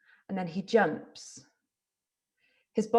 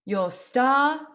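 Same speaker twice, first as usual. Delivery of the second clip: carousel caller; 2 semitones higher, 4 dB louder, slower than usual. Acted. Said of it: "The voice of a fairground barker".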